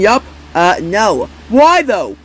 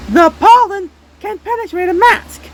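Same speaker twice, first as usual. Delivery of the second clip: louder repeat; 13 semitones higher, 3 dB louder than usual. Shown as a demonstration.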